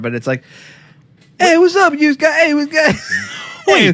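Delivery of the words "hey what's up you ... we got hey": very high, swooping put-on New York-Chicago accent. Imitating how people in Cleveland talk: fake New York-Chicago accent. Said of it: "this kind of fake New York, Chicago accent".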